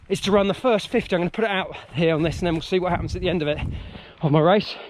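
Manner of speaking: puffing while running; out of breath. Real, not acted. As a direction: talk between breaths on a run. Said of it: "out of breath".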